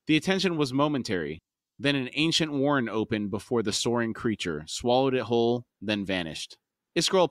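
measured audiobook storytelling; story narration. A narrator's reading. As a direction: read the passage aloud as a storyteller.

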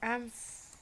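high, long held "flying"; exultant cry. Pretend. Player soars through the air in game, exultant. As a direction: sail up and stretch the word out.

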